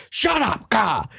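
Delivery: high, strained mock snap. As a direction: bark it like an angry star. Bam snapping at manager.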